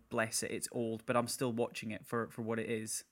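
soft, quiet, forgiving; indulgently pat the old film; fond indulgence. Retold or imitated. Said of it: "watch an old style movie and go".

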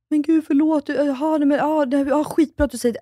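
mock startled sorry, pitched high; imitating someone caught off guard and apologizing; flustered apology. Mimicking her co-host being told off, lightly flustered and apologetic.

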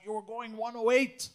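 a touch of imitated police aggression; imitated aggressive cop. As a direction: accuse like a pushy traffic officer, lightly acted. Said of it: "super aggressive. She's like".

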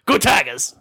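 cheering. Pretend. Sports cheer.

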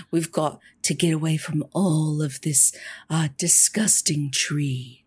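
healed rat in a smoother new voice; restored rat voice. Acted. Healed rat thanks the healer and urges escape, voice restored. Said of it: "their voice has been returned".

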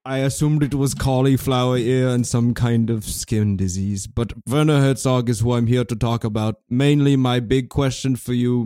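put-on German accent, measured show opening; German TV host. Host welcomes viewers to German cable access, stiff German voice. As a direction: formally present the guest in a halting German accent.

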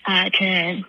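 out of breath from a run; panting between words after running; heavy breathing. Real, not acted. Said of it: "sorry for the heavy breathing".

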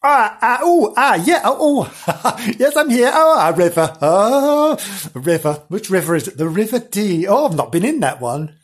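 lightly voiced Janice, flustered. Janice answers the storyteller from the riverbank, hammed-up fluster. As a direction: play a fussy, excitable stroller wary of water.

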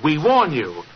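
slow, deliberate dictation rising to a menacing climax; mock-sinister letter dictation; dictating a threat. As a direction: read it out like a sinister warning.

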